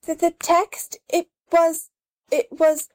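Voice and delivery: confused. Acted. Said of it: "She stops in confusion".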